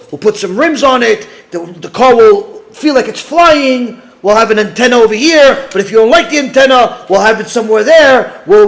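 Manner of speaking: oversell the car to the customer; eager salesman. Retold or imitated. Car manufacturer pitches to a buyer, eager and loud.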